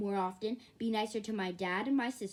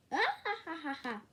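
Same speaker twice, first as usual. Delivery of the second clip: mocking laugh; 7 semitones higher, much faster than usual.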